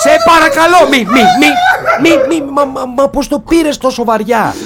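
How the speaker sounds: high, breaking plea between laughter and tears; laughing pleading. Acted. Begging the sobbing creature, half laughing, half crying. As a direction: beg through nervous laughter.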